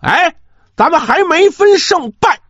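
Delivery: put-on sharp, stern rebuke from a young lord; stern shout. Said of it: "厉声喝道".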